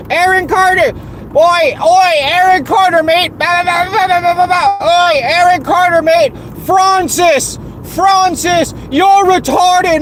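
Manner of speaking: high-pitched mocking British-Australian chant, babbling nonsense; mock British-Australian accent. Mimicking the voice chat crowd's endless nonsense, mock British-Australian accent. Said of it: "all you'll hear from these motherfuckers is".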